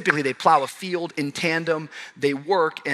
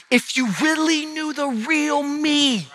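high, impassioned preaching; voicing the sinner's fears, preached hard; preaching at full force; 9 semitones higher, slower than usual. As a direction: plead it out from the pulpit.

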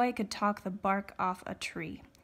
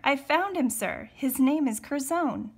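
put-on raised, louder boyish announcement; hollering; 6 semitones higher, 6 dB louder than usual. A narrator's reading. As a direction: call the news out across a crowd. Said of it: "he hollered".

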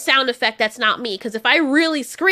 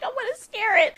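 higher, softer mock of Jeff's line; imitating Jeff; 7 semitones higher, 3 dB quieter than usual. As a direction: parrot the line with a grin. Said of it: "He's like".

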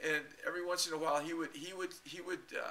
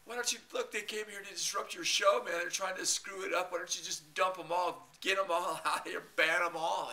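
higher, louder pushing with a laugh; mock urging; 4 semitones higher, 6 dB louder than usual. Urging the monitor to ban the whole crowd. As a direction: push him to ban them all. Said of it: "I kept telling the monitor".

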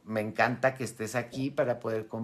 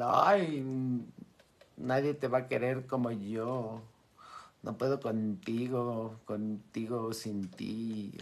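mock dramatic lover; slower than usual. Acted clingy romantic lament.

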